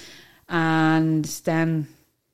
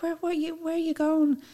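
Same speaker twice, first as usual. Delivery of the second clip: high-pitched startled boss asking; surprised boss; 12 semitones higher, 5 dB quieter than usual. Retold or imitated. Boss reacting to news she's leaving, imitated higher and startled. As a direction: play the boss, higher and caught off guard. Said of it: "She's like".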